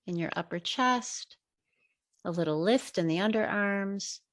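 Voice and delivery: measured meditation guide with long pauses; guided meditation. Real, not acted. Teacher leading listeners through breathing, guided meditation. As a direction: guide listeners unhurriedly, pausing between phrases.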